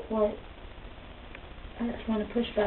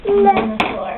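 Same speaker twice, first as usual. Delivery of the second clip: higher and louder, surprised question; excited; 9 semitones higher, 10 dB louder than usual. Acted. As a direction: lift it up in playful surprise. Repeated with a high loud lift.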